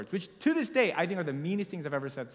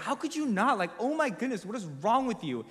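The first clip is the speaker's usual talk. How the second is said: retold angry outburst; 5 semitones higher than usual. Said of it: "I got so mad at him".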